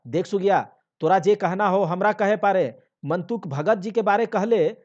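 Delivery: loud, high stern warning; husband scolding wife loudly; angry warning. Acted. Husband warns wife angrily.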